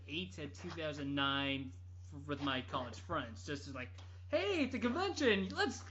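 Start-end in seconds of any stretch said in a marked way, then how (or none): 4.3-5.8 rising, loud let's go; excited call. Retold or imitated. College friends hyping a convention trip, excitedly. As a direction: pump your friends up to go.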